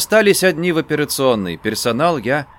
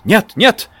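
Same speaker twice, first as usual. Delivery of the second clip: refusal cry; 8 semitones higher, 5 dB louder than usual. A narrator's reading. Mother refuses again.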